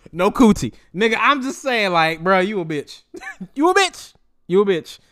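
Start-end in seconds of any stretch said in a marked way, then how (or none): 3.5-5.0 much higher, laughing, rising taunt. Real, not acted. Taunting Tory again, high laughing jab. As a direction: squeal it through laughter.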